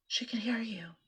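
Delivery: hushed warning whisper; whispering back. Retold or imitated. Hushing husband at hotel desk.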